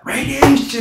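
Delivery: shouted alarm; yelling. Shown as a demonstration. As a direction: yell it like a warning. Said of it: "it's like yelling fire in a building".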